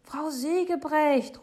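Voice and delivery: high, stretched, loud call. A narrator's reading. Father calling after the departing neighbour, loud and pleading. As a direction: call after someone leaving. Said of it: "ruft Papa".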